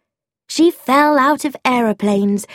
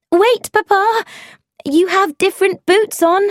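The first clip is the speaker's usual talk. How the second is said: calling out; 11 semitones higher than usual. Acted. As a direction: urgently call across the room to stop him. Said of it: "I called out".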